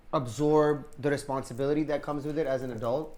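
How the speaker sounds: talking while crunching bread; chewing crunchy bread mid-sentence; mouth full. Real, not acted. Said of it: "I hear him crunching".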